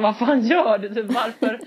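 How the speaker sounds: loud mock scolding; exasperated yell. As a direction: scold the friend in disbelief. Skäller på kompisen. (irriterat utrop)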